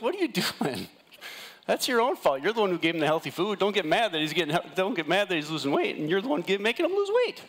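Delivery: half-laughing, tease her for getting mad; incredulous scolding. Retold or imitated. Telling Jess off about her husband's weight loss, high incredulous laugh. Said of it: "I was like".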